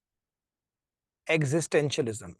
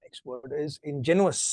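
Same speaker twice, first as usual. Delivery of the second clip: slow dictation; 2 semitones lower, 3 dB quieter, much slower than usual. Shown as a demonstration. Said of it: "dictating vocabulary to class".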